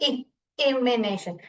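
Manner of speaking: slow इ, then "im-ination" for इलिमिनेशन; sounded-out इलिमिनेशन with short i. Shown as a demonstration. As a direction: isolate the short i at the start of इलिमिनेशन. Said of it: "ई sound आना था".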